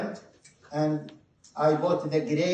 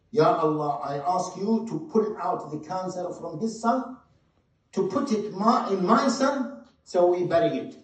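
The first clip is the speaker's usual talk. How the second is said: fervent plea; 3 semitones higher than usual. Retold or imitated. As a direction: beg God to take the cancer. Mother's prayer repeated.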